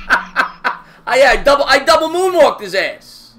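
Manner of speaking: real laugh over the brag. Real, not acted. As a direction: laugh while bragging. Laughing about a game play.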